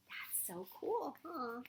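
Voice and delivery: awed gasp then whisper; excited gasp whisper. Real, not acted. Excited hushed reaction.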